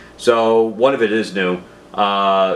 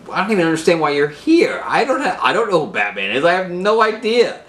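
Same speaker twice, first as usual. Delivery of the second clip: high, pleading frightened voice; scared hostage; 7 semitones higher than usual. Retold or imitated. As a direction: play the terrified guy at gunpoint, voice up high. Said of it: "and he's like".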